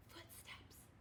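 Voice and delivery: breathy unvoiced whisper. A narrator's reading. Buster hearing footsteps outside the tent, whispering. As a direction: whisper it like danger is near. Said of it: "whispered Buster".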